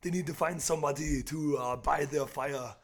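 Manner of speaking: put-on lightly done Austrian accent, halting as he improvises; Arnold Schwarzenegger. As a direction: do a loose Austrian action-star accent. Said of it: "Do some Arnold?".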